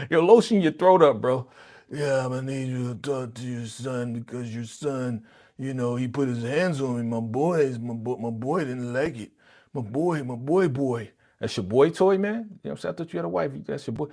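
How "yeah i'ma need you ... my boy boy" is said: ashy voice. Retold or imitated. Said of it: "get some lotion on your throat".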